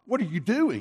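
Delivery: high-pitched incredulous question; retold alarm, voice leaping up; astonished friend. Friend questioning a man undressing at the beach, astonished.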